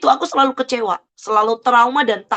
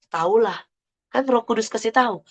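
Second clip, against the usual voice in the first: easygoing, matter-of-fact retold reply; innocent, casual; 3 dB quieter than usual. Retelling Pak Andi's answer about knowing her prayer, innocent and casual. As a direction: say it guilelessly, no fuss. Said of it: "Dengan sangat polos dan santainya".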